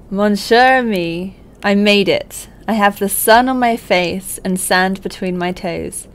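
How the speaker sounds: put-on a light, slightly theatrical letter reading, no accent. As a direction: read it out like a friend's heartfelt letter. I'm not going to do it in the accent.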